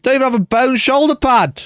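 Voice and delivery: high-pitched outraged protest; indignant complaint. Real, not acted. I'm so mad.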